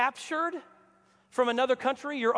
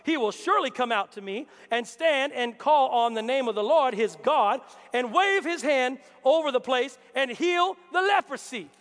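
furious Naaman. Retold or imitated. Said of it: "Naaman became furious".

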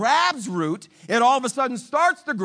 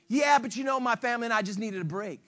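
quick, softer excuse; sheepish excuse; 2 semitones lower, 5 dB quieter, faster than usual. Retold or imitated. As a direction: mumble a weak excuse. Worker keeps excusing himself.

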